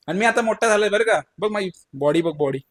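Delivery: put-on fast, high little-boy bragging; boastful boy. Little Krishna bragging to his mother, fast and high. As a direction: show off like a proud kid. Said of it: "आई मला म्हणले".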